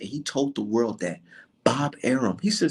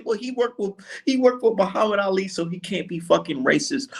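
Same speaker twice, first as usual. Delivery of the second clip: mocking critics; 6 semitones higher than usual. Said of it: "sit in my face and say".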